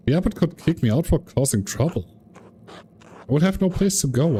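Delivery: a touch of tearful panic in a read-out refusal; mildly acted upset. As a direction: plead as a distressed monk, near tears but restrained. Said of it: "I'm sorry for crying".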